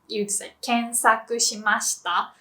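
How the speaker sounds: ordinary talk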